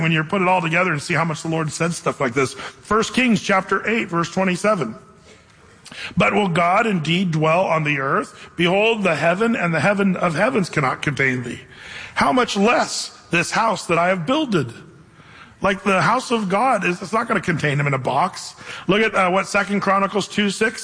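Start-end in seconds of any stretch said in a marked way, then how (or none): 6.2-14.7 scripture reading. Acted. Reads First Kings aloud.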